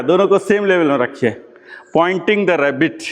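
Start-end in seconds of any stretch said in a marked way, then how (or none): 2.0-3.0 very slow teacher's prompt; slow drawn-out cue. Shown as a demonstration. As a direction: stretch each word out very slowly. Teacher drawing out an instruction.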